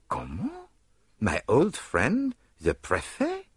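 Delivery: coy, fishing for compliments; detective asking why they chose him, lightly accented; Poirot's voice. Acted.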